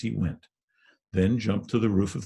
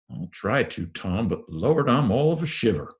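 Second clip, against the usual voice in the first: frightened; 5 semitones higher, 4 dB louder than usual. Acted. Huck admits he is shivering.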